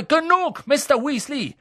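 high, loud command; stern teacher's rebuke; sharp reprimand. A narrator's reading. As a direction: cut the pupil off angrily. Teacher cuts off a pupil.

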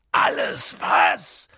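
langsam und tief gedonnert; donnernd. A narrator's reading. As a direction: donnere die Frage wütend. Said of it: "donnerte Hagrid". (Hagrid donnert Harry an, donnernd)

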